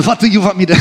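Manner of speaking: lightly faked Ukrainian accent; half-hearted try at a Ukrainian accent; bad Ukrainian accent. Comedian president questioning the government's offer, badly faked Ukrainian accent. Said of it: "that's not a good accent".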